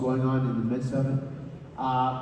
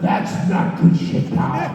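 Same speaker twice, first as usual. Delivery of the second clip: slow, rough, airy flat rejection of "good shit"; gruff Vince retort; 4 semitones higher, 4 dB louder, much slower than usual. Retold or imitated. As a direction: throw the words back grumpily and slowly. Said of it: "So there was my argument".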